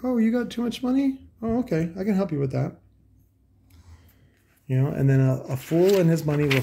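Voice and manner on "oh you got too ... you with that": high, put-on voice of a greedy seller; mock salesman. Mocking audio sellers who prey on rich buyers, high put-on voice. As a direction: sneer it like a slick dealer eyeing rich marks. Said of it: "They're like".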